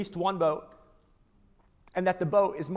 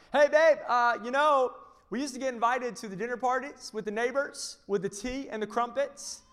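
high, loud hammed-up British wife voice; a hammed-up posh British complaint; mock British wife; 7 semitones higher, 5 dB louder than usual. Wife complaining to Noah in a mock British accent. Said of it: "They're British".

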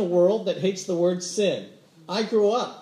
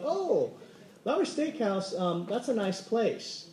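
polite evasion; 4 dB quieter than usual. Acted. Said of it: "Have you ever been that polite".

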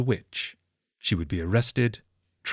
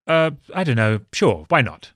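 put-on careless child; 3 semitones higher, 4 dB louder than usual. Child voiced answering.

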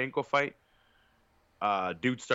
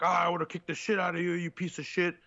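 mock drunk yell; 6 semitones higher than usual. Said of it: "he's just yelling in nerdy dude's face".

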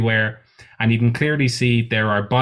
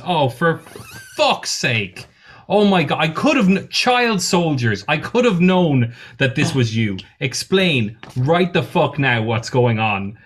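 higher, exasperated outburst, settling down; May exasperated; 4 semitones higher than usual. Acted. May rounds on Confuso, exasperated. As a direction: vent her disbelief at him. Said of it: "And she goes".

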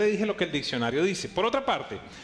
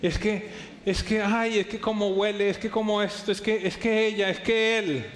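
stammering, higher, lovestruck; tongue-tied infatuation; 4 semitones higher than usual. Retold or imitated. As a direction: fumble for words like someone smitten. Stammering infatuated person imitated. (balbuceo de enamorado, más agudo)

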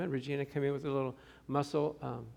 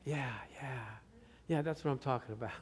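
laughing cheer; 5 semitones lower, 10 dB quieter than usual. Retold or imitated. Cheering friend.

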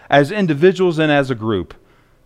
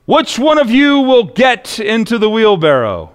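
Blondin's question; 6 semitones higher than usual. Acted. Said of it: "And then Blondin says".

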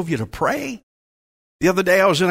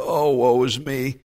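mock woe; 4 semitones lower, slower than usual. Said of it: "we just kinda slump over and go".

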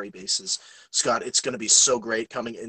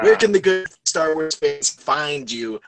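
announcer voice; 4 dB louder than usual. Acted. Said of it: "that we like to call".

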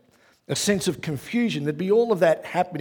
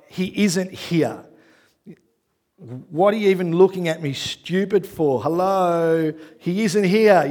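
full stop statement; slower than usual. Pretend. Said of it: "that's a full stop statement".

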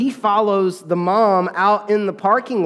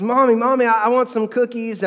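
put-on higher, childlike plea for cookies; little girl begging; 5 semitones higher than usual. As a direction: voice a small girl asking mommy for cookies. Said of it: "the little girl says".

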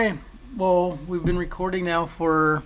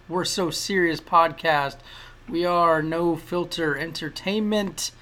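announcer voice; slower than usual. Acted. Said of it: "I think that's my announcer voice".

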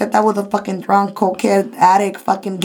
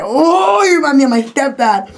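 mock-indignant realization, pitched up; retold exclamation; 5 semitones higher than usual. Retold outburst at a driver.

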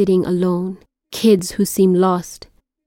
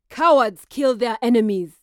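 ritual call; 3 semitones higher than usual. Acted.

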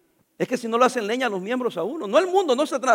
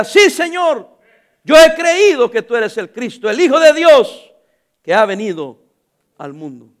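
loud declaration; 7 dB louder, slower than usual. Acted. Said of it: "le dijo ella".

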